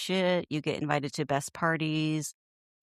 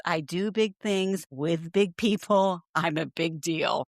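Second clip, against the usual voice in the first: mock self-important; slower than usual. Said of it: "Who does that sound like?".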